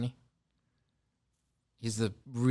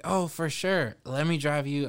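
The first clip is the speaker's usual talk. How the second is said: eager offer; 5 semitones higher than usual. Retold or imitated. Retells his eager offer to actor.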